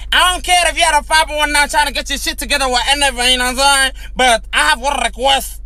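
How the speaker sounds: lightly voiced hood girl, fast; a hint of sassy hood girl. Storyteller imitates fiancée's hood talk, lightly. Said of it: "This is how she talk".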